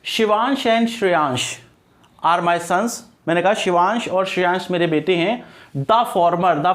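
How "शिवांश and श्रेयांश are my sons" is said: slow, deliberate example sentence; example sentence read out. Shown as a demonstration. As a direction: spell out the example for students. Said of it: "मैं बता देता हूँ". (धीमे से उदाहरण वाक्य पढ़ना)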